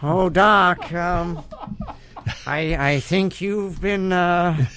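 halting nervous Baruchel voice; Jay Baruchel as Marty. Acted. Marty as Baruchel gently tells Doc he's losing it. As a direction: stammer it out, worried about Doc. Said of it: "Jay Baruchel is Marty McFly".

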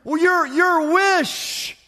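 high, fervent pledges of service; devoted rescued man. Acted. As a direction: gush eager promises to your rescuer, offer after offer.

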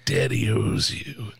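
slow, breathy creepy whisper. Retold or imitated. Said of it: "in that weird whisper voice".

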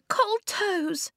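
high small whimper; high childish whimper. A narrator's reading. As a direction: whine it like a cold little kid. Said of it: "Blue whimpered".

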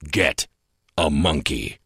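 big-time announcer voice, slow and weighty; fighting game announcer. Shown as a demonstration. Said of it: "use your, uh, big-time announcer voice to say our signature line".

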